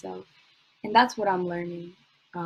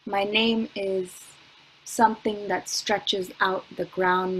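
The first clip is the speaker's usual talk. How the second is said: spoken word poem; 3 dB louder than usual. Acted. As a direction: let each "My name is" land, then build.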